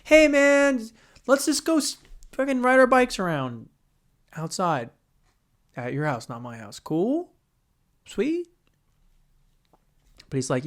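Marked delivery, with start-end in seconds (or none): 0.0-8.5 put-on hyped-up kid talking his buddy into hanging out; kid begging a friend. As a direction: plead like an overexcited sixth grader. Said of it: "that's not how it sounded. It was probably more like".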